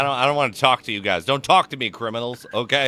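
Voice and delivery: high, fast, snippy guard brushing people off; grumpy NPC voice. Retold or imitated. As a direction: rattle it off high and loud like an annoyed warden. Voicing the grumpy warden NPC.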